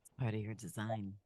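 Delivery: hoarse, stuffed-up flu voice; sick voice. Real, not acted. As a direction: talk through a bad cold. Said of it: "Do you like my sick voice?".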